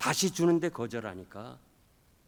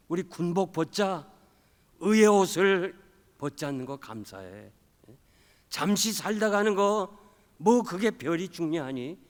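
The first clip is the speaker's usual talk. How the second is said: fervent encouragement; 6 semitones higher, 9 dB louder than usual. Retold or imitated. Wife praising and encouraging husband.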